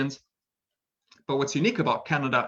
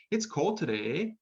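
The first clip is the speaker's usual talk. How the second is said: Canadian eh; 5 semitones higher, 3 dB quieter than usual. Shown as a demonstration. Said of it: "they might say".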